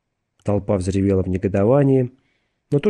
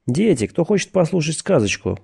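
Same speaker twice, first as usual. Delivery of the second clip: drawled invitation; 7 semitones higher than usual. A narrator's reading. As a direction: draw it out as if offering children a fairy tale. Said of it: "протянул Стеббинс". (протяжно, повыше, как детям)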